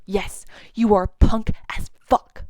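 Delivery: slow, tearful quoting of the line; choked up. Real, not acted. Reviewer moved to tears retelling Simon's line, slowly. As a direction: get teary while saying it. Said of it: "Me too".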